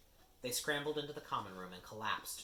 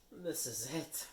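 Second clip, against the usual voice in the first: moaning; 5 semitones higher, slower than usual. Acted. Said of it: "Ron moaned".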